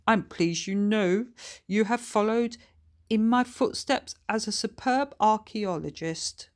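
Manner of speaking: a kindly spirit greeting his granddaughter; lightly voiced old grandfather; ghost grandfather Harold. Harold proud.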